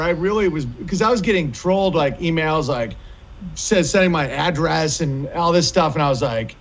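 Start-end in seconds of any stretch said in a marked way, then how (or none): none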